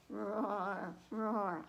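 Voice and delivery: mild mock engine roar; half-hearted rumbling roar; a playful, not very good engine noise. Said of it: "I'm not good at, uh, car engines".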